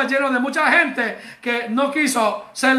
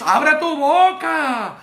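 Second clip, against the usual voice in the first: urging cry; 3 semitones higher, much slower than usual. Real, not acted. Preacher urging congregation to praise.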